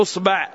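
أصبع said "usba'", u then a; damma, then fatha. Shown as a demonstration. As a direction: say أصبع with a after the ba. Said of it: "أنك إذا قلت".

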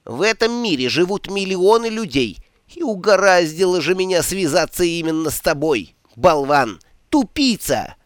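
high, loud furious little god; furious tirade. Acted. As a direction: rant at him, pitch climbing. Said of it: "Ом яростно замолотил".

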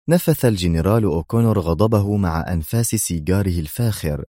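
ordinary delivery, nothing marked

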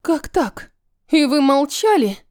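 can't hold it in any longer; indignant outburst. Acted. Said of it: "Не сдержалась Вивьен".

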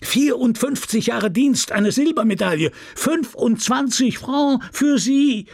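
high-pitched shout, slowing at the end; bellowing. A narrator's reading. Mayor shouts the award into an old woman's ear, bellowing. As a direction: yell it into a deaf person's ear. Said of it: "ihr ins Ohr zu brüllen".

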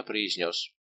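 ordinary delivery, nothing marked

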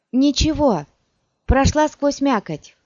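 put-on high, loud, wounded girl's cry; slightly trembling cry. A narrator's reading. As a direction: call out high through the pain. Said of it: "крикнула девушка немного дрожащим голосом".

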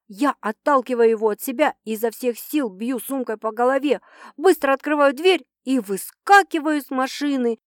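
ordinary delivery

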